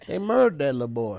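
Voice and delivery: "murdered" squashed into one syllable; dropped letters. Shown as a demonstration. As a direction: roll "murdered" together, letters left out. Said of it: "couple letters you left outside".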